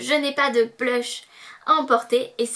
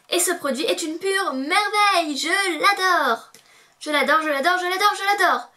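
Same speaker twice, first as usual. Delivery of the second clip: gushing excitement; 5 semitones higher than usual. Real, not acted. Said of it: "il faut que je me calme".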